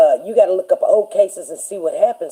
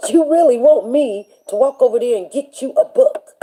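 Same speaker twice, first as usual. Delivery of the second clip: higher, scornful "really"; scoffing teacher; 6 semitones higher than usual. Retold or imitated. Teacher mocking a student in class, scoffing. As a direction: scoff at the very idea. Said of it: "she was like".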